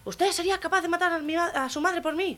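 high, commanding sergeant voice; barking sergeant. Acted. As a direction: demand an answer from a recruit. Sergeant questioning the Basque recruit.

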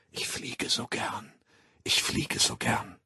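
very soft, slow, half-whispered; hypnotic suggestion. Acted. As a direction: lull a sleeper with the slogan. Schlafschul-Suggestion. (leise, langsame Einflüsterung)

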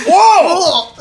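high, amazed "whoa"; imitated store clerk. Store clerk amazed at big ears, imitated high voice. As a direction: mimic the clerk's high-pitched astonishment. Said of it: "the clerk, he's all".

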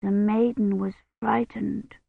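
put-on soft, timid little girl; small, frightened voice. A narrator's reading. Agnes listening to the bear tale, small frightened voice. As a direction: shrink the voice with fear. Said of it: "in a small, frightened voice".

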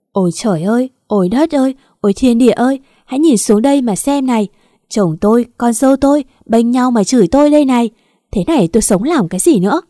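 loud, aggrieved wail to heaven; loud lamenting. Acted. Wife complains to heaven about husband and daughter-in-law, loud lamenting. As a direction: cry out your grievance, pitch rising, words tumbling.

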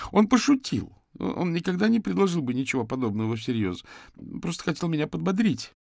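high, strained, pleading voice; distraught young man. Acted. Suspect confesses to the detectives, high and distraught. Suspect defends his friend.

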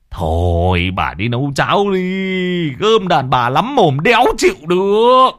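slow start, then high loud snapping; exasperated outburst. A narrator's reading. A husband snaps at his nagging wife. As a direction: lose your temper at her nagging.

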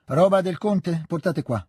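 a hint of a bossy old hostess giving orders; brisk old lady. Maria Dmitrievna gives orders. (padrona anziana brusca che dà ordini)

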